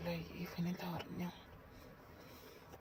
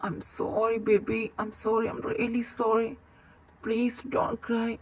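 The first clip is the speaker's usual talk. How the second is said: slow consoling plea; much slower than usual. Acted. Consoling crying partner.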